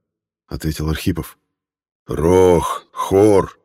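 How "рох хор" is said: growled bear names. A narrator's reading. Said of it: "прорычал медведь".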